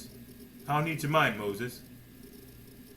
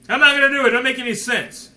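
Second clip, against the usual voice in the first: higher, louder stubborn refusal; 4 semitones higher, 5 dB louder, faster than usual. Retold or imitated. Preacher voicing Moses refusing God, loud stubborn refusal.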